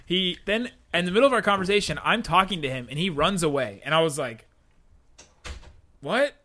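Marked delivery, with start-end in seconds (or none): 6.0-6.3 sharp, puzzled what; startled high question; surprised. Retold or imitated. Man suddenly runs away.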